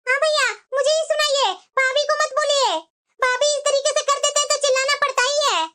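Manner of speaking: indignant, strident self-defence. Acted. Sister told to calm down protests to her brother, angry. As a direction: protest crossly, voice pushed up. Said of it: "तेरा आवाज बाहर तक जा रहा है".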